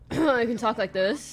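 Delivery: deep, slow voice; dropping voice deep. Shown as a demonstration. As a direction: settle the voice low and slow. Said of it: "should do a bit of a deeper voice".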